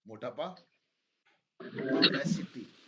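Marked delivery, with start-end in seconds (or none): 1.6-2.7 slow dictation. Shown as a demonstration. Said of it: "अब spelling आ जाओ".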